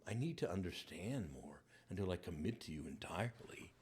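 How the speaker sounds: ashamed whisper. Acted. Peter confessing to the Lord, whispered in shame.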